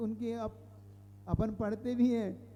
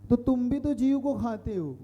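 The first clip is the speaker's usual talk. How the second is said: louder, pointed mock challenge; a hint of a debater scoring a point; opponent's challenge; 6 dB louder than usual. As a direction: throw their accusation back, lightly acted. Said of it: "आपको वो कहते हैं कि".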